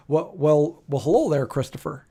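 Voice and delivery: lightly voiced uncle's greeting; Uncle Bud. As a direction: imitate an uncle's habitual way of talking, lightly. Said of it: "he would always talk like this".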